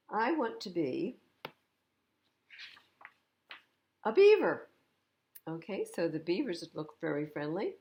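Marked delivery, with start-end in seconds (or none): 0.1-4.7 announcing. A narrator's reading. PJ declaring he will be a beaver, bursting high and loud. Bunny announcing new wish.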